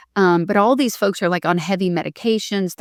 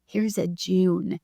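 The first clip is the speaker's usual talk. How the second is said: slow gentle reveal; 4 dB quieter, much slower than usual. Retold or imitated. God voiced in a story.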